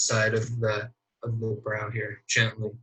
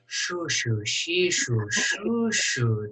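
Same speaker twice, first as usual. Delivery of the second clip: rapid shoo and shee noises; lemur shoo noises; 4 semitones higher, slower than usual. Acted. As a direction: rattle off shushing noises fast. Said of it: "shoo noises in your ear".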